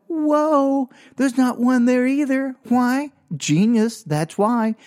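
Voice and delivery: high, drawn-out mock amazement; gloating. Boy in the car gloats over missing paddles, high and triumphant. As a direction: crow in a high voice, delighted with yourself.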